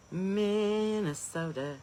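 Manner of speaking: put-on slow drawn-out Minnesota accent on Minnesota; a light mock Minnesota accent. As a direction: stretch Minnesota out like a Minnesotan friend. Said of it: "I like the way she talks".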